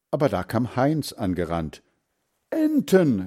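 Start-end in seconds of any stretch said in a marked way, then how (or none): 2.5-3.2 put-on high-pitched boy's shout; excited call. A narrator's reading. Heinz spots the ducks and runs up, calling excitedly. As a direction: call out a thrilling find. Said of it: "rief er".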